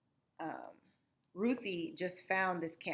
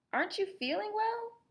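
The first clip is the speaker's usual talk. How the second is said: concerned papa; 14 semitones higher than usual. Acted. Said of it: "asked Papa".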